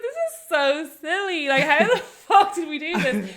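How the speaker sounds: half-laughing at their own silliness; laughing exasperation. Retold or imitated. Retold thought, missed flight.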